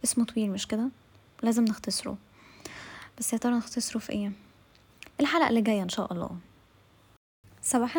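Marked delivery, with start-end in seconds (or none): 3.2-4.3 soft whispered question, almost no voice; teasing whisper. Acted. Whispering a teasing question to the audience. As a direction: whisper it like a little secret.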